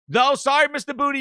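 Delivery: hasty mock apology. HR hastily backs down.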